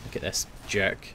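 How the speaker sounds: hushed whisper to himself; whispering while stalking an enemy. Real, not acted. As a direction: breathe it out unseen. Sneaking up on an enemy.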